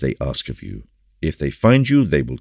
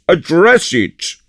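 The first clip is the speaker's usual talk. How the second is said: drawn-out hearty shout, higher still; slower, louder repeat; 14 semitones higher, 8 dB louder, slower than usual. Acted. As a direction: insist with big booming glee. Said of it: "cried Porthos".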